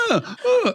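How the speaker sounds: high-pitched little "uh" sobs; mock emotional gasping. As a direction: imitate an overwrought, high gasping. Imitates a woman's emotional outbursts.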